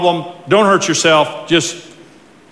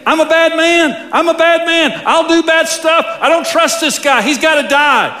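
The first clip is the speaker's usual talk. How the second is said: voice of the bad old man; 10 semitones higher than usual. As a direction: play the old sinful self boasting.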